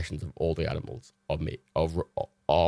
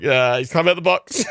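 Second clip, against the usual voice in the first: laughed half-shout, higher and louder; laughing panic; 8 semitones higher, 7 dB louder than usual. Retold or imitated. Scared of the snake, laughing and shouting. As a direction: blurt it out through laughter.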